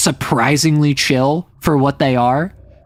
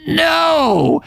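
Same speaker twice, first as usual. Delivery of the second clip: Toad's gleeful yell; 11 semitones higher, much slower than usual. Acted. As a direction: crow it like a smug toad. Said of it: "And the Toad goes".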